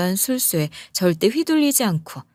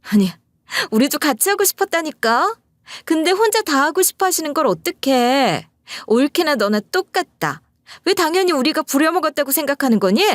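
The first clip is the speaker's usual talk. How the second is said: snappy, much higher mock sister-in-law; sharp retort; 8 semitones higher than usual. Sister-in-law snapping at her brother on the phone, sharp and high. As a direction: needle her back with a tart, raised voice. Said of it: "톡 쏘는 목소리로".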